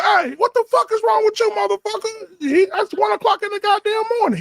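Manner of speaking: very high-pitched exasperated squeal; high, squeaky mock outrage; retold indignant outburst. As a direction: act out scolding a friend at night. Retold outburst at friend at night.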